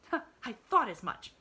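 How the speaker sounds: triumphant. Acted. Maid crows to the girl, triumphant. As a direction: crow in triumph. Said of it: "triumphed Nancy".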